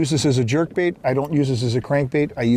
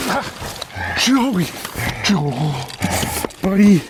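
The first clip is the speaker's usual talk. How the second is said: excited calling out; 5 semitones higher, much slower than usual. Real, not acted. Calling partner over big fish.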